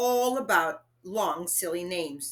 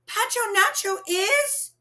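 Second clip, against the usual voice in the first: urgent panic; 14 semitones higher, 4 dB louder than usual. Acted. Panicked child trying to tell.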